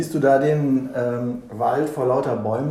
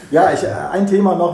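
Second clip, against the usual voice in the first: laughing; 6 semitones higher, 10 dB louder than usual. Real, not acted. Laughs after the Kölner banter.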